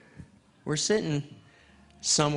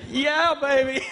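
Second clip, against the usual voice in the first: put-on high, loud, whooping yeah baby; gleeful yell; 9 semitones higher, 6 dB louder than usual. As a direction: celebrate out loud. Joyful outburst at wife's news.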